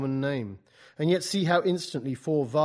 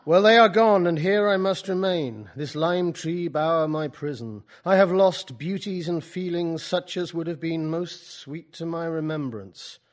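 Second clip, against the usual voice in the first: loud, higher, slow venting in a corner; Coleridge venting; 3 semitones higher, 8 dB louder than usual. Acted. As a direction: pour out grievances with force. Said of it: "so he can vent for a while".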